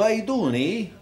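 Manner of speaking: Italian "How you doing" with a Canadian "eh" tacked on; lightly mocked Canadian Italian, "how" lifted, closing on "eh"; Canadian Italian greeting. Comic describing Canadian Italians, mock Canadian Italian greeting. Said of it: "they talk backwards".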